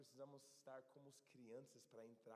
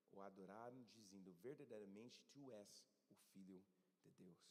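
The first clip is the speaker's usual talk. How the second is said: scripture reading; 2 semitones lower than usual. Acted. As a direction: let the passage close gently. Continues reading the Bible passage.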